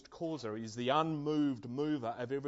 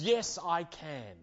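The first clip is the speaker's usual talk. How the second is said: mighty voice; slower than usual. Acted. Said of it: "the mighty voice again replies".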